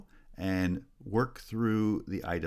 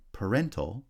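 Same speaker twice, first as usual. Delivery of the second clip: "parental" with the second syllable strong; second-syllable stress; 2 semitones higher than usual. Shown as a demonstration. Teacher showing stress shift, second-syllable stress on "parental". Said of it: "has stress on the second syllable".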